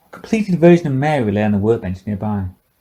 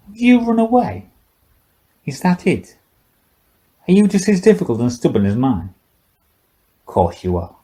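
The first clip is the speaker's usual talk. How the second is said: put-on higher, loose drunken old man's voice; drunk old scientist; 8 semitones higher than usual. Old scientist taunting the silent girl, tipsy and mocking.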